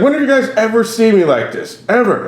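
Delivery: high-pitched mock drunk protest; trashed club owner. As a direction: imitate an indignant drunk demanding an answer. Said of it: "he's so trash".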